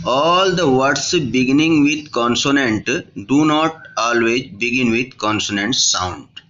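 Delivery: very slow, word by word, reading the rule aloud; slow textbook reading. Acted. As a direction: dictate it to the class. Reads the rule slowly. (धीमे-धीमे, शब्द-दर-शब्द नियम पढ़ना)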